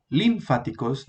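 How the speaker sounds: "linfáticos" stressed on the first syllable, LÍN-fa-ti-cos; wrong stress on first syllable. Shown as a demonstration. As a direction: hit LIN at the start of "linfáticos". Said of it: "no se lee". («linfáticos» mal acentuado en la primera sílaba: LÍNfaticos)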